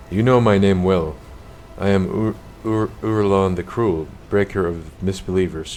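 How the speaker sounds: proud boasting villain. Acted. Villain proclaims his titles.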